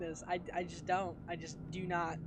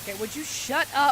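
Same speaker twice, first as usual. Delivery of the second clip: voice crack; 5 semitones higher, 8 dB louder than usual. Real, not acted. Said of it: "that was a voice crack".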